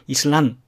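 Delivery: "イスラン" with an unreleased n; simple closed n finishing イスラン; natural final n. Shown as a demonstration. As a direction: end イスラン on n, no added nu. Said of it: "ぬなんて言わないで".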